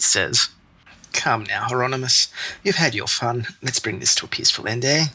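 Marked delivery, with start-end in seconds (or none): 1.1-5.0 words forced through gritted teeth. Acted. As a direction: talk through clenched teeth. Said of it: "through gritted teeth".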